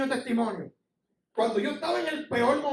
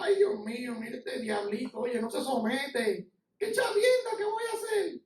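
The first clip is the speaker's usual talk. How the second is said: helpless God; slower than usual. Acted. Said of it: "y Dios está".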